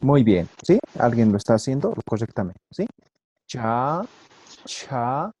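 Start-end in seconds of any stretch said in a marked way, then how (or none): 3.5-4.0 plain "cha" as in Spanish; simple CH. Shown as a demonstration. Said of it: "simples es igualito que el castellano". 4.7-5.3 "cha" with a blown puff after CH; aspirated CH. Shown as a demonstration. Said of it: "La aspirada, soplando".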